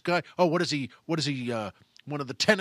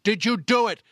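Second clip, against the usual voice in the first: loud questioning, higher on the repeat; acted impatient interrogation; insistent demand; 4 semitones higher, 5 dB louder than usual. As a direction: press hard for an answer. Boss demands answer from crying maid.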